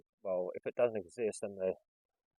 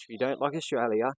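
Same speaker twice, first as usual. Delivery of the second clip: louder, indignant mock shout; retold yell; 3 semitones higher, 6 dB louder than usual. Bystander defending Australia in the servo, retold yell. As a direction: imitate an offended local yelling. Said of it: "He just yells out and goes".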